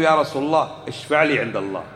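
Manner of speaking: lightly voiced pleading caller; quoted plea. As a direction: say it as the message's plea to the Prophet. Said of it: "قل له". (توسل منقول بصوت مختلف قليلا)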